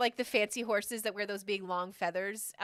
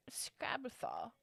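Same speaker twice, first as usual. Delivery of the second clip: ominous whisper; 3 semitones higher, 10 dB quieter, slower than usual. Acted. Scary name of witch.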